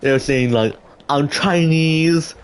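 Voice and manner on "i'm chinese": mock Chinese accent, higher and drawn out. Retelling what classmates were saying, mock Chinese accent. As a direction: put on a stretched, high-held Chinese accent. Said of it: "doing some racist accents".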